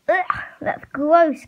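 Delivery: slow it down in revulsion; disgusted. Acted. Kenji disgusted by goat skull.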